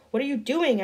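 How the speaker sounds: yelled question. A narrator's reading. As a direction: yell it out as the bag is taken. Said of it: "I yelled".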